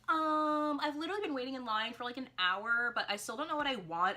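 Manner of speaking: impatient fan. Retold or imitated. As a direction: mimic a fed-up fan stuck in line. Impatient customer voiced in story.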